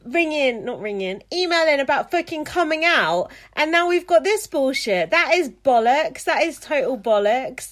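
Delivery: loud, furious swearing rant; angry rant. Real, not acted. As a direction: blow up at the listener's email. Host furious about a rude email.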